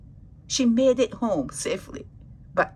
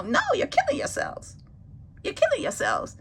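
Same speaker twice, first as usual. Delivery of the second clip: alarmed warning; 13 semitones higher than usual. Real, not acted. Warning viewers about overeating.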